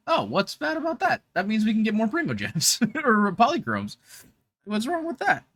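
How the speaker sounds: retold Chloe chirping her protest. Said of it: "with Chloe's voice".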